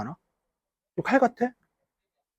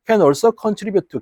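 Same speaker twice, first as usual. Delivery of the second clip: slow reading; 4 semitones higher, 4 dB louder, much slower than usual. Shown as a demonstration. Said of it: "reading English slowly".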